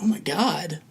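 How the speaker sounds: breathless unvoiced whisper. Teacher retelling a dad tearing up, whispered. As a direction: hush it out in disbelief.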